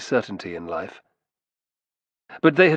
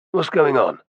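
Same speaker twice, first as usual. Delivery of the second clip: sharp, louder demand; indignant demand; 5 semitones higher, 4 dB louder than usual. A narrator's reading. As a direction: demand an answer, bristling. Confronted by armed ring.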